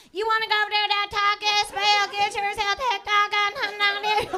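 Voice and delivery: high, thick hillbilly drawl, sung out; imitating grandma's heavy hillbilly twang, half singing. Grandma offering Taco Bell, in a heavy hillbilly twang. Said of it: "She'd be like".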